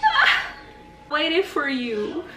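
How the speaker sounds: high, slow, laughing delight. Real, not acted. Savoring her first sip, high and laughing. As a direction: drag it out, laughing.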